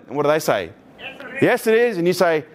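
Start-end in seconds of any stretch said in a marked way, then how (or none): 1.4-2.0 mock partner insisting. Acted salt quarrel, partner's line.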